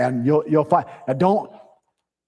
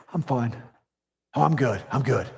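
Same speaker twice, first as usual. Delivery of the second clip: mock brush-off; 3 semitones lower, 5 dB quieter than usual. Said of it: "We get things like".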